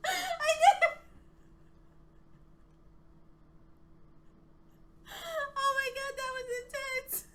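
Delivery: very high, loud joyful squeal; overjoyed. Real, not acted. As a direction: shriek with relief and joy. Finished just in time.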